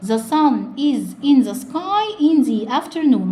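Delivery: "the afternoon" said thee afternoon; slow, linking the to afternoon. Shown as a demonstration. Teacher shows "the afternoon" said as thee before a vowel. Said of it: "انا قلت زي مش زي".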